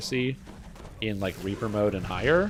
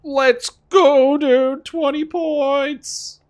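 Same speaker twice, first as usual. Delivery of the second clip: high, loud cheering; excited shout; 8 dB louder, much slower than usual. Real, not acted. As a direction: yell it out in triumph. Celebrating twenty Reaper points.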